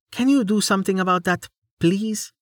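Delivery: a knight mildly annoyed by a firebolt; Amelia, weary. A narrator's reading. Amelia voiced, weary request.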